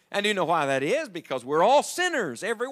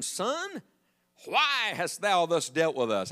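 emphatic scripture reading; slower than usual. A narrator's reading. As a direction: read the mother's verse out deliberately. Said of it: "I wish I could read that like she said it".

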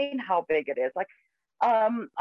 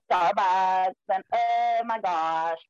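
American twang; much slower than usual. Shown as a demonstration. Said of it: "say it in an American twang".

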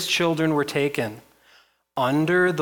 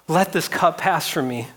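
mildly raised, higher pleading call; retold call; 5 semitones higher, 4 dB louder than usual. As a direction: call out lightly, as in retelling. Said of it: "Jesus calls out".

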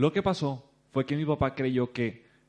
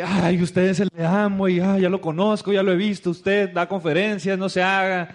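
louder, excited gushing; excited recognition; 5 semitones higher, 8 dB louder than usual. Retold or imitated. Stranger gushing at the Amway guy, excited and loud. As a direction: gush like you just spotted a local celebrity.

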